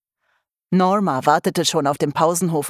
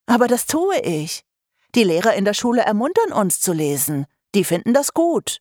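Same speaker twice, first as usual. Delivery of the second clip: put-on higher girl's voice pleading her case; girl Vivian protesting; 4 semitones higher than usual. Vivian pleads with her mother that teachers praise reading, higher. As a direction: stand up for yourself, girl, a little higher.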